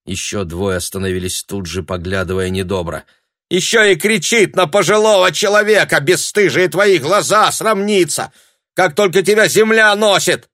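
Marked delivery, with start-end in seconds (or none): 3.5-10.5 high, loud scolding yell; piercing shout. A narrator's reading. Sharp-nosed woman yells at Tanya, piercing. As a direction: screech it at the crowd.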